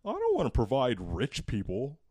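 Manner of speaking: mock politician argument. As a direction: mockingly voice an opponent's objection. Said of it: "his main argument".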